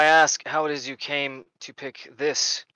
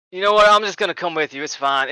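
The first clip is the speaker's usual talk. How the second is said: sudden decision; 2 semitones higher, 3 dB louder than usual. Acted. Character suddenly decides, exclaims.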